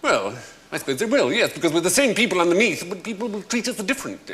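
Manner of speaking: swapped-in upper-class English; posh English accent. Acted. Server answering on the accent swap, posh English. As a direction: reflect in borrowed posh English. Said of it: "this swapping of accents".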